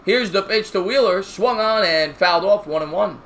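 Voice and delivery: steady broadcaster call of the inning; play-by-play commentary. Acted. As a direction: call the game like a TV announcer. Mock play-by-play of game.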